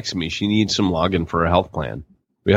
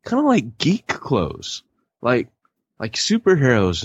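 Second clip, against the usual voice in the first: mock wife; 7 semitones higher, slower than usual. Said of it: "She's like".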